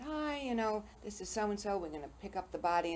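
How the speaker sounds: lightly flippant caller, breezy and high at the start. Retold or imitated. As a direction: imitate a too-casual funeral home caller. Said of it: "like, flippant".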